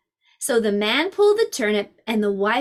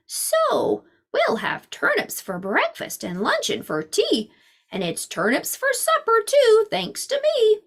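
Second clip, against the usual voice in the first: boastful man; 9 semitones higher than usual. Acted. Man boasts about turnips.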